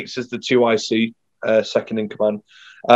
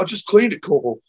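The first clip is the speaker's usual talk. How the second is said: higher, mock-whining protest; whiny protest; 6 semitones higher than usual. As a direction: plead like a put-upon private. His own protest voiced.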